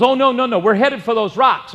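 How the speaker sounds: high loud insistent refusal; stubborn refusal. Retold or imitated. Stubborn father-in-law refuses to hand over the wheel, loud. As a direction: refuse flatly, dead set on the rocks. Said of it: "He goes".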